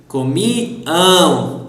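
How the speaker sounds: "Comiam" drawn out with a nasal "am" ending; nasal stressed ending. Shown as a demonstration. Teacher shows students the nasal sound in "Comiam", stressed nasal ending. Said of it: "Nasal sound and you need to stress".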